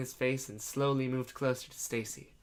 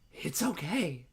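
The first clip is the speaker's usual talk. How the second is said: gently reassuring, a touch higher; soft, comforting; 3 semitones higher, slower than usual. Acted. Man assures scared Stacy, soft comforting voice. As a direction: soothe a frightened child. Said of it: "he said in a soft, comforting voice".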